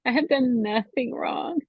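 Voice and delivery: high, fast, anguished pleading; rising retold scream at God. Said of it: "screaming to the Lord".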